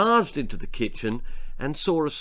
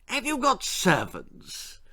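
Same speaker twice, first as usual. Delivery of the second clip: high, slow, drawn-out lady's voice; Lady Davinia; 11 semitones higher, slower than usual. A narrator's reading. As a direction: ask it in a high, hesitant ladylike voice. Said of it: "Lady Davinia asked suddenly".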